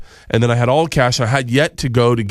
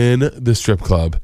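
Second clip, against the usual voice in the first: "In" drawn out with heavy stress; stretched, stressed "In", then the rest follows; emphatic correction; slower than usual. Real, not acted. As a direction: lean slowly on "In" to correct the listener. Correcting the host's misunderstanding.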